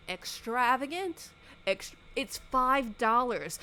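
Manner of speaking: high, slow sarcastic scoff; sarcastic disbelief. Real, not acted. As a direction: scoff at the word. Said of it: "mocking mom's word".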